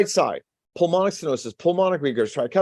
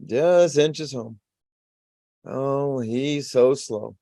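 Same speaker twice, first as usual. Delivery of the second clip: slow inchworm crawl; 2 semitones lower, much slower than usual. Acted. Inchworm venous system crawling slowly.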